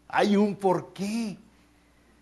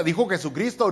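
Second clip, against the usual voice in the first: ordinary delivery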